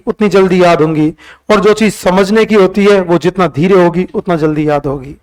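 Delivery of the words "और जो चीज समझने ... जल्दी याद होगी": deliberately slower explanation. Shown as a demonstration. Teacher telling students that understanding needs slowness, said more slowly. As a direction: ease off and let it sink in. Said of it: "ये धीरे बोला मैंने".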